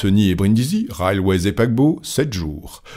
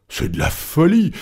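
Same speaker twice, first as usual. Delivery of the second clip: high, exasperated outburst; vexed exclamation; 9 semitones higher than usual. A narrator's reading. Stuart is vexed by his partner's insistence, exclaiming. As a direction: cry out in protest, pitch jumping. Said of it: "s'écria Andrew Stuart".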